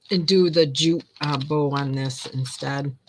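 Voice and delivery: talking through hiccups; hiccuping mid-sentence. Real, not acted. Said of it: "got the hiccups on".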